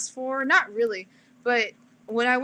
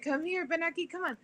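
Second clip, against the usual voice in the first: imitating dad; 7 semitones higher, 8 dB quieter than usual. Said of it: "he said".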